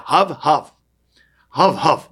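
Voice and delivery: dog bark. Shown as a demonstration. Rabbi explains the Hebrew dog bark, hav hav barked. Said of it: "you say".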